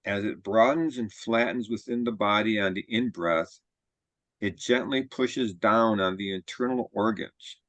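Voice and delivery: measured body-scan guidance with long pauses; guided meditation. Real, not acted. Teacher leading a group body scan, calm guided-meditation delivery. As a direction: guide them calmly, phrase by phrase, leaving room to breathe.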